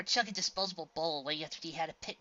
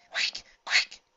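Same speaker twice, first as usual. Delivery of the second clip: urgent call; 12 dB louder than usual. A narrator's reading. Urgent call at a choking duckling.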